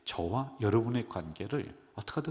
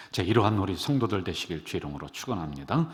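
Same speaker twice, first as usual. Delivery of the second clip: preached blessing; 4 semitones lower, 8 dB louder than usual. Real, not acted.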